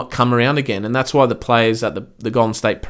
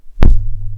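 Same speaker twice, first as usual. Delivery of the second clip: embarrassed laugh; 6 dB louder than usual. Real, not acted. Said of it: "may have made a noise".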